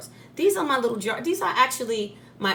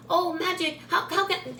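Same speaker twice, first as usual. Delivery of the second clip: mock whiny customer; 7 semitones higher than usual.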